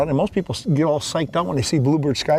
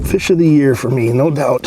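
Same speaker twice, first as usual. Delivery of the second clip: thrilled, loud; 7 dB louder than usual. Real, not acted. Thrilled over catch.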